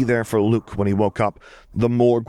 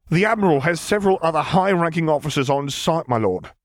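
higher, anxious junior officer; nervous officer voice; 8 semitones higher than usual. Acted. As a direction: answer like a jumpy subordinate. Officer reports in role.

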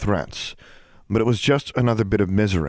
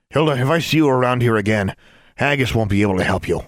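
louder official warning; stern warning; 4 semitones higher, 3 dB louder, faster than usual. Acted. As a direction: warn her off firmly. Auror warns the hag.

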